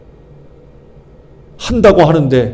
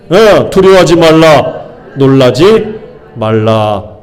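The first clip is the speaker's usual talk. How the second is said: slow placeholder reading; slower than usual. Shown as a demonstration. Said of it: "내 말고 자기 이름을".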